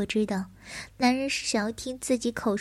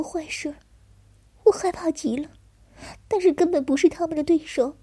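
higher and louder, growing distress; distressed, building; 4 semitones higher, 4 dB louder than usual. Acted. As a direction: push toward tears, rising. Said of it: "低声啜泣着".

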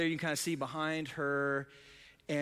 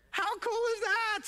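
high, loud thrilled question; delighted exclaim; 3 dB louder than usual. Real, not acted. Pastor marvels to the congregation, excited. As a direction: throw it out in wonder.

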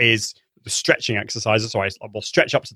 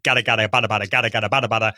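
rattled off fast as a diction drill; quick, crisp tongue-twister syllables; 2 semitones lower, much faster than usual. Shown as a demonstration. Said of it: "silly tongue twisters like".

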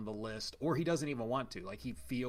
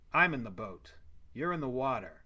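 put-on stilted old movie melodrama. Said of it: "nineteen fifties dialogue".

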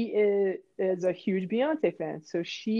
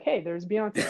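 casual, understated heads-up; calm retold aside; super calm; slower than usual. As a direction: mention a star with no fuss at all. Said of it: "I'm, like, super calm".

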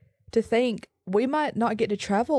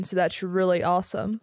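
sarcastic. Real, not acted. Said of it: "That was sarcasm".

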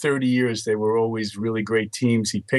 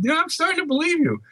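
mock impressed; faster than usual. Retelling his reply to Charles.

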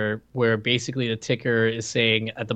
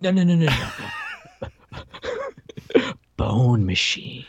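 laughing; 4 semitones higher, much slower than usual. Real, not acted. Correcting bowel movement joke, laughing.

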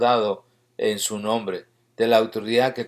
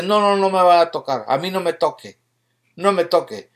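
higher-pitched mock protest, lightly acted; imitated refusal; 4 semitones higher than usual. Person refusing prayer tells the visitors to keep away, imitated protest. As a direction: imitate someone fending off a touch, pitched up.

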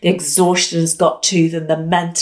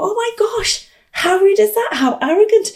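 high outraged "how rude"; much higher offended huff; indignant; 12 semitones higher than usual. Retold or imitated. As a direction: scoff at his rudeness. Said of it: "And I thought".

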